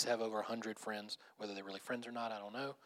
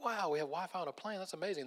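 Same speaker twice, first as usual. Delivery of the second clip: higher-pitched retold wonder at a novelty; amazed passenger; 7 semitones higher than usual. Airline passenger marveling at new Wi-Fi, mock amazed.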